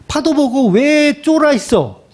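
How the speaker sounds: a half-playful telling-off of scared followers; scolding rebuke. Retold or imitated. Jesus scolding disciples frightened by the waves, hammed-up rebuke. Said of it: "호통을".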